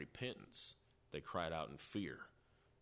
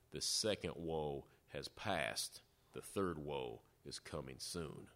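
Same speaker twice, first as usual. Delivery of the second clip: lower, slowed ominous quote; dark, ominous; 3 semitones lower, slower than usual. Retold or imitated. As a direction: read it as a grave warning, mildly ominous. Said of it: "a very dark and ominous prediction".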